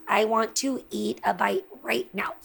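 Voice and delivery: hushed, eager whisper. Real, not acted. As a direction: whisper it like a secret craving. Unvoiced whisper about food.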